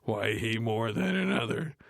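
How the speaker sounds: lightly voiced comic delivery; a hint of a stand-up comic; Cedric the Entertainer impression. Mocking the script as Cedric the Entertainer, lightly voiced. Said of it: "said Cedric the Entertainer".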